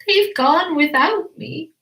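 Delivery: high, slow lament; mild plaintive cry. A narrator's reading. Drip is left behind by his family, plaintive. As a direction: wail lightly as the one left behind. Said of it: "And he cried".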